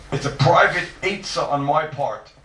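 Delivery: "private" punched as the key word; stress on private. Shown as a demonstration. Teacher restating the personal precaution, "private" stressed. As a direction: repeat it with the weight on "private". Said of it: "I stress the word private".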